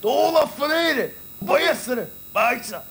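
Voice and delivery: scolding father. Acted.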